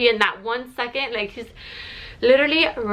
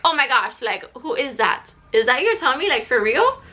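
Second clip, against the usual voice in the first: mildly amazed, questioning retelling; mock astonishment, lifting into questions; surprised visitors. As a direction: imitate visitors in surprised disbelief. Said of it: "are surprised".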